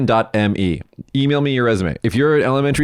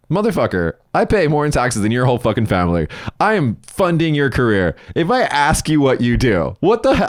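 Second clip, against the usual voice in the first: higher-pitched, emphatic indignation, acted out; indignant retort; 4 semitones higher than usual. Bar patron answering a snooty public worker, indignant and higher-pitched. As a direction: retell it as an outraged comeback, pitch climbing.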